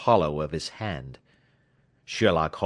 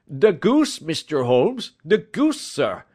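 breathless and high, much louder; gasping; 7 semitones higher, 5 dB louder than usual. A narrator's reading. Commissionaire bursting in on Holmes, gasping excitedly. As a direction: blurt it out, out of breath with news. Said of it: "he gasped".

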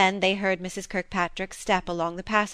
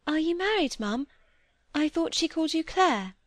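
put-on high, shy little girl; a child daring to ask; timid child; 9 semitones higher than usual. A narrator's reading. Molly shyly asking Clare, high and timid.

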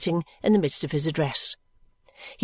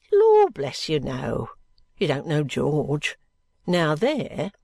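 friendly indignation; 5 semitones lower, much slower than usual. A narrator's reading. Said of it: "Her friendly indignation".

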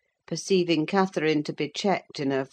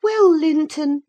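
Catherine, murmured; 12 semitones higher, 6 dB louder than usual. A narrator's reading. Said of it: "murmured Catherine".

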